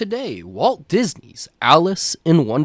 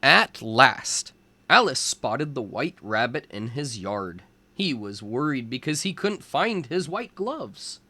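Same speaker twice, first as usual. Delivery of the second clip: put-on lively storybook narration for young kids; reading to children. A narrator's reading. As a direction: read it like a teacher at story time. Reads picture book to children.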